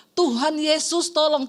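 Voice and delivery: slow, restrained retelling of a plea; retold cry for help. Wife repeating husband's plea to Jesus, restrained retold cry. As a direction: quote the plea without really shouting. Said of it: "Makanya dia teriak".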